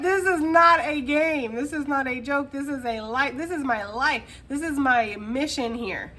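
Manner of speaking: no-nonsense declaration with NOT punched; dead serious. Pretend. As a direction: lay down the law about the mission. Voicing Gemini's serious mission mindset.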